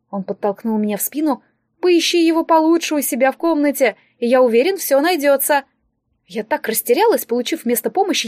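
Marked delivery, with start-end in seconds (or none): 1.8-5.6 higher, emphatic fussy encouragement; breezy reassurance. Acted. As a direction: send them off with airy confidence. Distributor breezily sends girl off. (бодрое успокаивание, повыше)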